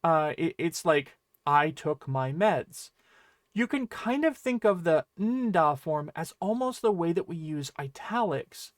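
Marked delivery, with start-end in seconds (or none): 1.4-2.9 slow, low, weighted I took my meds; emphatic statement. Shown as a demonstration. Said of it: "it forces your claim to carry more weight".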